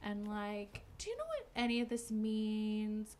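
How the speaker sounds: slow, soft, trying to sound casual; imitating someone acting offhand; feigned nonchalance. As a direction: play it casual, drawing the words out. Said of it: "trying to be nonchalant about it".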